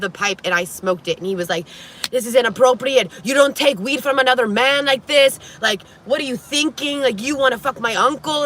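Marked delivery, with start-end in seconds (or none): 2.1-8.4 raised, high-pitched mock scolding; imitating a scandalized telling-off, voice pitched up; imitated hissy fit. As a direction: act out a jealous man's indignant outburst. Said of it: "decides to throw a little hissy fit".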